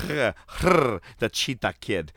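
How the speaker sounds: drawn-out growly big-cat announcement; mock cat growl. Podcaster introducing Eddie Guerrero's opponent, mock cheetah growl. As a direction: growl the name slowly like a cheetah. Growls out the wrestler's gimmick name.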